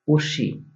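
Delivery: উর্শি with a retroflex sh; Barisal dialect word. Shown as a demonstration. Teacher models উর্শি for bean. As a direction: say উর্শি, stress on উর. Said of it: "বরিশালের ভাষা হবে".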